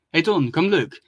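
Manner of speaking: calling out. Acted. Red turtle calls Don to come look, calling out. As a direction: call a brother over, mildly acted. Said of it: "Clad Turtle called out".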